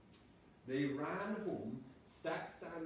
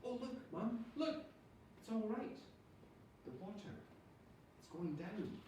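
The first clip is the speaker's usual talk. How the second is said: relieved calling out; 9 semitones higher, 4 dB quieter than usual. A narrator's reading. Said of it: "Jim called out".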